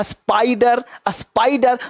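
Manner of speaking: "स्पाइडर, स्पाइडर" with a clear eye sound after the P; model pronunciation. Shown as a demonstration. Teacher answers his own question, "स्पाइडर, स्पाइडर" with long eye vowels. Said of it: "तो क्या पढ़ते हैं".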